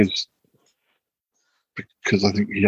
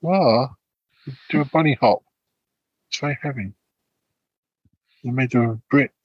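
excited dog talk; 4 semitones higher than usual. Real, not acted. Talking to the dog.

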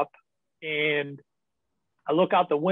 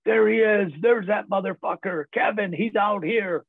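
higher-pitched mock yell; retold screaming; 5 semitones higher than usual. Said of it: "comes out and starts screaming".

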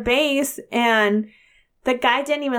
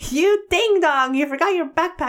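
son imitating insult; 5 semitones higher than usual. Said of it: "he's like".

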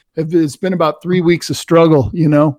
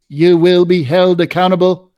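robotic voice; 3 semitones higher than usual. Retold or imitated. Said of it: "said in a robotic voice".

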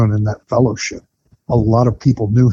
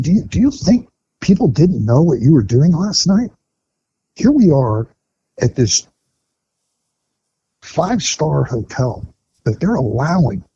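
retold angry scolding; 3 semitones higher than usual. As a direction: mimic the sponsor tearing into him. Sponsor chews him out at breakfast.

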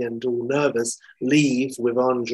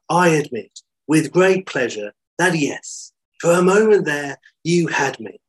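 higher, louder theatrical admission; gracious concession; 4 semitones higher, 5 dB louder than usual. Acted. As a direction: concede it grandly, with relish. Lawrence concedes with relish.

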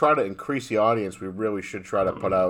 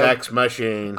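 robot voice; 3 dB louder, slower than usual. Pretend. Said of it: "sound like we have robot voices".

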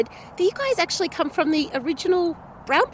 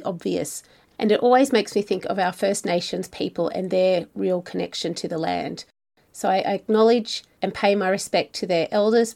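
measured, scripted travel-show read; podcast narration; 8 semitones lower than usual. A narrator's reading. Host introducing a wine region to listeners, scripted narration.

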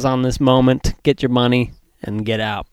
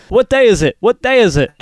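catchphrase quoting voice; 8 semitones higher than usual. Retold or imitated. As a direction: shout the movie line like a fan. Imitating catchphrase guy.

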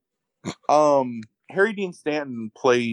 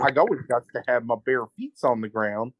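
lightly voiced hick twang; hick accent. Host mimicking barefoot woman at dinner, light hick accent. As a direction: imitate a country hick, folksy. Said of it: "she turns into this fucking hick".

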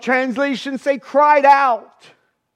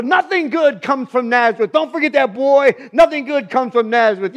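stern father; 5 dB louder than usual. Retold or imitated. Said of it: "parroted his father".

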